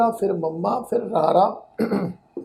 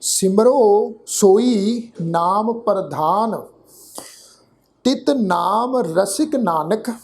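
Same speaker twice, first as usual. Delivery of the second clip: slow, drawn-out verse; measured Gurbani recitation; scripture recitation; much slower than usual. Shown as a demonstration. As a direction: recite word by word with long vowels.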